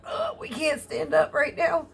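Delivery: lightly voiced stubborn back saying no; voicing her back. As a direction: give the back a cheeky, apologetic voice. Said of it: "my back goes".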